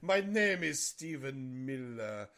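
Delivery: put-on Dracula accent. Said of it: "Dracula these days without sounding like a Nazi".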